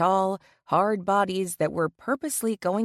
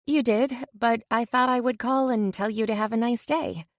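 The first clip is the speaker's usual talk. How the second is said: smiling voice; 4 semitones higher than usual. Acted. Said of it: "I said with a smile in my voice".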